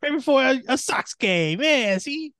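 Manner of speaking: loud, high, excited calling out. Real, not acted. Excited shouting about Toblerone picture.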